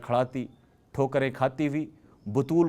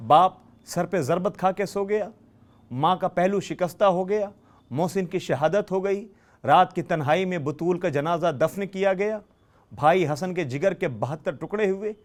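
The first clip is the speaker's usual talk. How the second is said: rising lament; 4 semitones higher than usual. Acted. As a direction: lift the voice in mourning, line after line. Mourning lament building in sermon.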